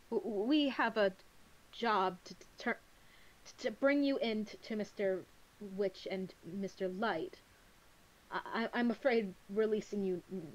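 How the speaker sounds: halting, stammering nervous voice; anxious stutter. Acted. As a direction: stumble nervously through it. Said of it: "It gets significantly worse when he's anxious".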